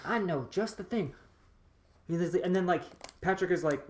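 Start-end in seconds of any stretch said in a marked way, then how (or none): 0.0-1.1 hammed-up insinuating impression; talking in winks. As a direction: imitate a man who winks with every phrase. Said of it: "talking in winks the whole time".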